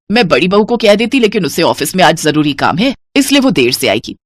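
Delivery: lightly voiced older mother-in-law, easy and homely; a hint of a bossy but friendly mother-in-law. Mother-in-law asking her daughter-in-law to buy a sari, casual.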